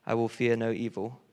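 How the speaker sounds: unhurried scripture reading. Acted. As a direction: read the psalm like a prayer. Reads Psalm 23 aloud.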